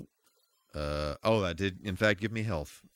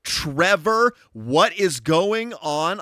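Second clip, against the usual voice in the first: hyped greetings; 3 semitones higher, 5 dB louder, slower than usual. Real, not acted. Greeting raiders one by one.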